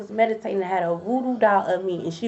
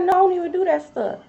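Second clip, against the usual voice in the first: much higher put-on voice of a false friend; mock innocent denial; 8 semitones higher, faster than usual. Imitating a friend denying she did magic, mock innocent protest. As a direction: imitate her protesting, high-pitched, tailing into dismissive blahs.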